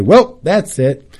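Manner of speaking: Dion Cole. Retold or imitated. Quoting a comedian once things are done, light imitation. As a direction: draw it out as a mock wrap-up. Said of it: "Dion Cole would say".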